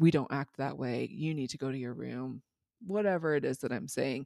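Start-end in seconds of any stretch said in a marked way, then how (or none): none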